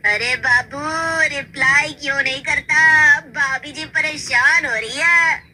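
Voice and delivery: slow, drawn-out teasing; mock teasing. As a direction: rib him in front of everyone. Friends tease Ashish. (दोस्तों का खिंचा हुआ मज़ाक)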